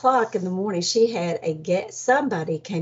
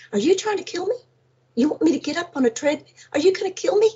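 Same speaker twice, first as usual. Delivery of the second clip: high, rising alarmed questions; mock-frantic high voice; panicked protest; 8 semitones higher, much faster than usual. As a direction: plead in high-pitched disbelief.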